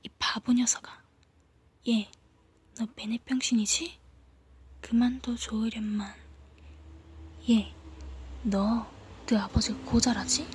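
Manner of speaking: hushed mocking taunt; taunting under the breath; barely audible taunt. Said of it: "나에게만 들릴 듯 말 듯한 음성으로".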